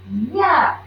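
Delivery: mild mock yell of disgust; hammed-up schoolboy yuck; holler. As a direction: call out yuck across the table. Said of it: "Ralph hollered".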